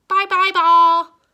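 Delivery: put-on high, slow, drawn-out toddler scream; baby screaming. A narrator's reading. Baby Joshua watches his ball bounce away, screaming. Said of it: "Baby Joshua screamed".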